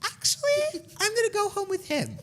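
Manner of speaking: high, giggly declaration; laughing announcement. Retold or imitated. Telling his friend he's leaving with the driver, high and laughing.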